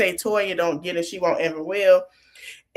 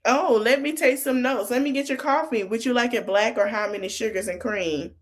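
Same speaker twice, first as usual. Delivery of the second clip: lightly voiced secretary, pitched up at first; mock secretary; 3 semitones higher than usual. Secretary offering to take notes and get coffee, lightly mocked. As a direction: play a hint of an eager-to-serve secretary. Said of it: "I'm a secretary".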